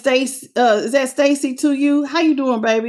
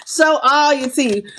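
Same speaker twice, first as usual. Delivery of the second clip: slow, laughing repeat; real laughter, slowed; laughing slowly. Real, not acted. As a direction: savour it through a laugh. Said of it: "Look at that grin".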